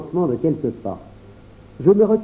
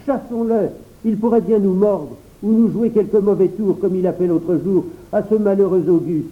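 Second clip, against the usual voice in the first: put-on worried child; 5 semitones higher than usual. Pierre's child voice.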